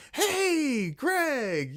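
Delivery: high, put-on dorky greeting; dorky hey. Shown as a demonstration. Calling out to Greg in a dorky high voice. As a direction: call out in a silly high voice. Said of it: "not in that voice".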